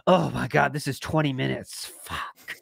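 sinking, deflated mock groan, dropping to a whispered swear; mock dismay. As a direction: act let down, dying away at the end. Mock viewer dreading a long video.

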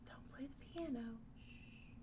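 fast, soft whispered hush. Pretend. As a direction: whisper for quiet before prayer. Hushing the pretend piano.

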